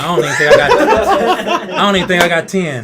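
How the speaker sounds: high, loud, through real laughter; cracking up while talking; laughing admission. Real, not acted. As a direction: laugh at yourself as you say it. Laughing at his own stolen-base count.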